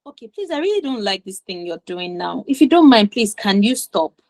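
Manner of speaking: calm, measured polite request; polite assertive request. Shown as a demonstration. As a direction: ask them courteously to stop, in a composed voice. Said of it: "that's a better way to say that same thing".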